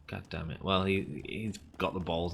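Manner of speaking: ordinary talk, nothing marked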